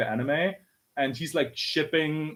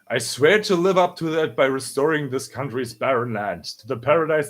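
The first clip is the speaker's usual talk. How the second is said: measured, emphatic leader's oath; solemn declaration. Acted. Young heir vowing to lead and restore Wano, solemn declaration. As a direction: declare it to the nation, building firmly.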